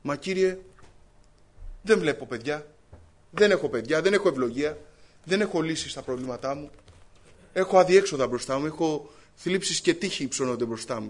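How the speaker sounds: loud pleading cry to the Lord; a loud, desperate plea, voiced in a sermon. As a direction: call out to God in loud distress. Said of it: "Φώναξε δυνατά".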